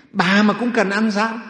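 high, loud, drawn-out challenge; indignant disbelief. Acted. Miser husband begrudging his wife any cake, indignant. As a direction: question her as if it were absurd.

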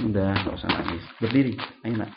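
softly coaxing parent; acted soothing. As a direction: gently get a crying child up. Parent soothes a crying child. (membujuk anak dengan lembut)

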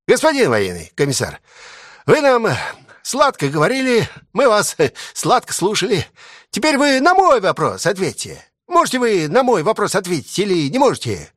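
a hint of a cheeky heckler baiting the commissar; cheeky soldier. A narrator's reading. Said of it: "крикун и озорник". (насмешливый солдат-крикун, слегка сыгранный)

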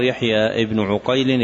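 عقيل said ʿUqayl, u on the ayn; damma on the first letter. Shown as a demonstration. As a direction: pronounce عقيل as ʿu-QAYL. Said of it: "يأتي بالفتح إلا في راويين".

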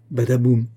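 loud imitated tumble, "badaboum"; punchy spoken crash; crashing rock noise. A narrator's reading. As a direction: voice the thud of a rolling stone. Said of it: "fit la pierre en roulant".

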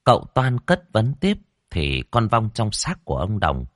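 ordinary delivery, nothing marked

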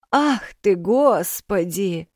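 a high, loud gasp, then drawn out; astonished. A narrator's reading. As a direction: throw up your hands in shock. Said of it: "всплеснула руками баба Маша".

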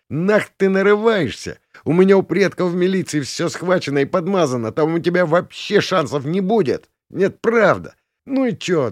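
put-on high, bragging spoiled rich kid; arrogant brat. A narrator's reading. Spoiled prince brags about his connections, high and arrogant. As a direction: boast and threaten from above.

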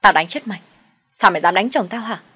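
loud threatening yell; angry cursing. Acted. Quỳnh curses her sister-in-law, loud and angry. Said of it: "chửi tôi".

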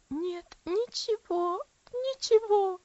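anguished denial climbing into a cry; sharp pain. Acted. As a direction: let the hurt break through on the repeat. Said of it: "с острой болью".

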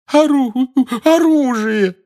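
high, halting blurt; forced out. A narrator's reading. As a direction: squeeze the word out. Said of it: "выдавила Гермиона". (выдавленное слово)

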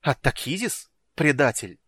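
loud tearful accusation; near tears. A narrator's reading. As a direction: cry out, almost sobbing. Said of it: "Ладонна почти разрыдалась".

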